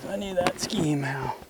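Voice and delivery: whispered to himself, slow; a slow under-the-breath reminder. Real, not acted. Muttering to himself, forgot scheme.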